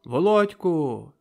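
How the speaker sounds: loud drawn-out call; shout. A narrator's reading. Oleg shouting Volodko's name from the crowd. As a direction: shout his name slowly. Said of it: "крикнув".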